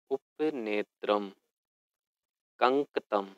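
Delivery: each Sanskrit word drawn out syllable by syllable; teacher modelling Sanskrit words at half speed; slow pronunciation drill. Shown as a demonstration. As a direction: say every word slowly and clearly for pupils to repeat. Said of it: "पदानि उच्चार्यत".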